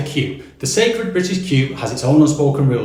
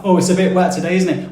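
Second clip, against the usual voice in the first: chatty weather greeting; 4 semitones higher than usual. Retold or imitated.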